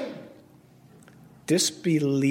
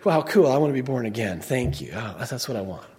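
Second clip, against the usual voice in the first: casual thanks, sinking lower; mock easy acceptance; 4 semitones lower than usual. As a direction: play an easygoing, grateful convert, understated. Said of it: "instead of saying".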